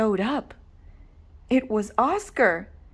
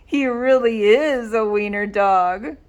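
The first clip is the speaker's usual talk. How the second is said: mocking jeer; 4 dB louder than usual. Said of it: "they cried".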